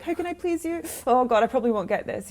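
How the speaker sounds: high, meek, anxious plea; timid and eager to please. Retold or imitated. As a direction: beg like a nervous beginner. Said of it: "be like".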